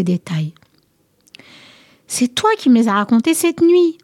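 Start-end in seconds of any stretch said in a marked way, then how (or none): 2.1-4.0 a higher-pitched, lightly tearful plea; crying. A narrator's reading. Alcmène begs her husband to believe her, mildly tearful. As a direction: plead as if close to tears, understated. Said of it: "pleurait Alcmène en se tordant les mains".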